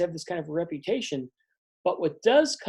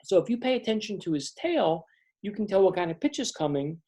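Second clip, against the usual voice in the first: much higher, bright-eyed explaining; Blossom, eager; 3 semitones higher than usual. Acted. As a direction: share the secret with the team. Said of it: "And she says".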